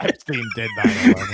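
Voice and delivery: shrill mock outburst; squeaky high voice. Joke punchline, very high.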